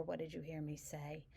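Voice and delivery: gentle, unhurried delivery; calm and even. Shown as a demonstration. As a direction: ask softly and evenly. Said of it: "deliver that kind of calmly and evenly".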